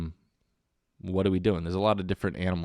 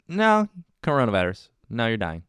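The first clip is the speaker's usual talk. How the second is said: panicky inner voice; 3 semitones higher than usual. Pretend. Anxious inner voice in brain.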